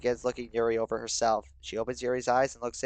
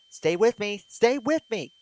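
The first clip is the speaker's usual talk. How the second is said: urgent pleading; 10 semitones higher, 5 dB louder, slower than usual. Acted. Monika pleads with panicking narrator.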